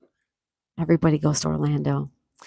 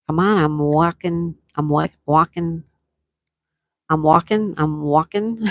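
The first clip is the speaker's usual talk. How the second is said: put-on New York accent; slower than usual. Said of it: "the New York accent".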